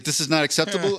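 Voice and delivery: put-on lightly done German accent; a hint of a stern German billionaire. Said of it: "I'm just gonna try to do a German accent".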